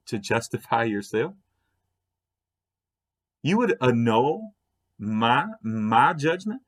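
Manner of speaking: measured, disbelieving questions with rising ends; incredulous challenge. Retold or imitated. God answering Job's accusation, incredulous challenge.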